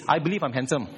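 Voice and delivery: boastful I believe I'm handsome; a touch of smug self-praise; mock vanity. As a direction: say it like a proud show-off. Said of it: "when they say believe is this".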